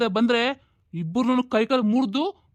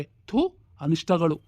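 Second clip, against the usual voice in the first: contempt; 2 semitones lower, much slower than usual. Acted. Father curses his daughters.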